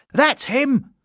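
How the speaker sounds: high, pointed cry; a bystander singles out the bear; accusing shout. Acted. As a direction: point him out loudly. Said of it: "someone shouted".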